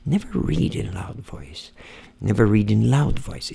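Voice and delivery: slow, low-pitched drill with shaped intonation; low, deliberate English repetition; intonation practice. Shown as a demonstration. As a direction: repeat it deep and drawn out, playing with the tune. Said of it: "entonação é outro truque".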